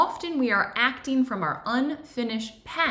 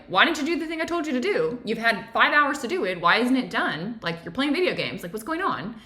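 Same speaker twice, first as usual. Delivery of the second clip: with attitude. Retold or imitated. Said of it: "with a little bit of attitude".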